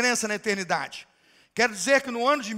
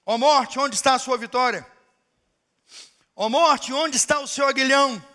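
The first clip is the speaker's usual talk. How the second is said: proclaiming scripture; 4 dB louder than usual. Acted. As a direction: declaim the verse to the church. Reads scripture as climax.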